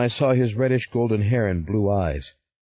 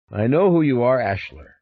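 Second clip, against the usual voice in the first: put-on light Dutch accent, higher and louder; a hint of a Dutch stranger naming him; lightly Dutch-accented stranger claiming to know him; 4 semitones higher, 4 dB louder than usual. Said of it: "in Italian with a Dutch accent".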